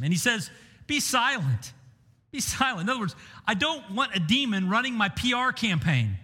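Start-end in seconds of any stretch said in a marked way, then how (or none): 0.9-2.8 "Be silent" said firmly, pitched higher, a mild commanding rebuke; stern rebuke. Retold or imitated. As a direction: shut the demon down with a firm command. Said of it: "Jesus responds and rebukes him".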